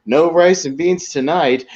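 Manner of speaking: high, slow, sing-song announcement; drawn-out proud declaration; mock wife announcing. Wife telling husband no rice tonight, high slow mock announcement. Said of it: "And she goes".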